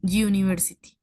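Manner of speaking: university opening with a clear Y sound, like yoo. Shown as a demonstration. Teacher drills the Y sound of university for the class. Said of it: "Suena como U".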